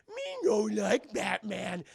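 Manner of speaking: slow, shouted caveman grunt; caveman brute voice. Retold or imitated. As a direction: dumb brute talk, drawn out. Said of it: "He's like".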